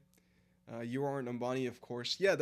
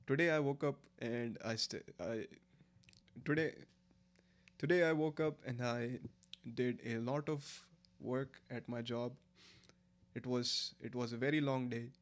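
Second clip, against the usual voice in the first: attempted Indian accent. Shown as a demonstration. Streamer proving to chat they sound Indian, Indian accent. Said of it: "your Indian accent does not sound Indian".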